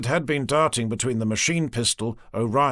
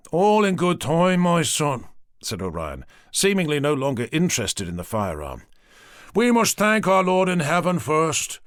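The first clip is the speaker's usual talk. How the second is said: priest; 4 semitones higher than usual. Acted.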